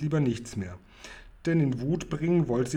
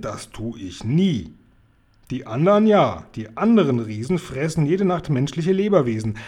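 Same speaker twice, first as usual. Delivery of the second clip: kind giant; 3 semitones higher, 4 dB louder than usual. Acted. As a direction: insist proudly, then soften on his name.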